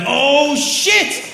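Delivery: high, loud shout of glee; excited shout. Retold or imitated. Passengers shouting as the father rises. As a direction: yell it with thrilled surprise. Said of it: "we're like".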